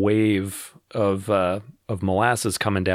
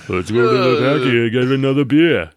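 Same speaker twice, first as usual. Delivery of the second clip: put-on loud Boston accent; hammed-up Boston accent; 3 semitones higher, 6 dB louder than usual.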